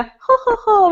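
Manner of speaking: lightly mocking snooty French "ho, ho, ho"; affected French ho-ho-ho; imitating snooty Frenchman. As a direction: put on a little haughty French courtier noise. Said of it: "you are snotty".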